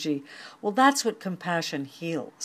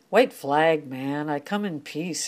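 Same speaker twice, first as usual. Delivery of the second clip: streetwise alley cat. Acted. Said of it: "hissed the cat".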